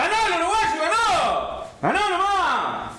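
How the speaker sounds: high, gleeful victory cry; excited cheering. Real, not acted. Cheering a quiz winner.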